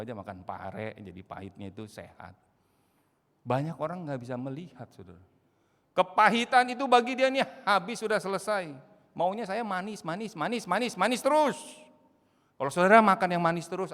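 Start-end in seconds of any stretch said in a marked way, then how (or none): 5.9-13.9 loud, high, urgent preaching; preaching at full force. Acted. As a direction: drive the warning home from the pulpit. Preacher raises voice.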